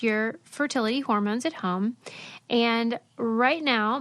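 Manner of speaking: brisk sponsor read, upbeat and clear; host reading the sponsor spot. Acted. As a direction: sell it like a podcast ad. Ad read within podcast.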